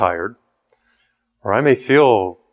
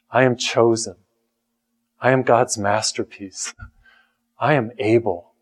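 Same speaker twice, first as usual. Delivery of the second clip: positive confession; 2 semitones lower than usual. Shown as a demonstration. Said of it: "I'll say".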